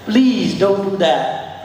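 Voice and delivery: slow pleading please; pleading, drawn out. Shown as a demonstration. Riding coach voicing a plea to the horse, slow and pleading. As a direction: beg the horse slowly, stretching please. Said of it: "pleading demo then plain".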